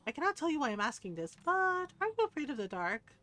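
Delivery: measured, formal storybook delivery; game dialogue reading. Acted. Game character warns of approaching night, theatrically read dialogue.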